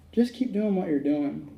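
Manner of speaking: slow, understated delivery; mild request. Retold or imitated. Wronged person naming their amends, mild slow request. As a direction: say it simply and unhurriedly. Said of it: "it doesn't sound that bad".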